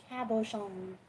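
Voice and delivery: "Cabochon" in a hammed-up French accent; mock French ka-bo-SHON; horrible French accent. Shown as a demonstration. Crafter jokes how to say Cabochon, mock French accent. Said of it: "pretend to be French and say it with a horrible accent".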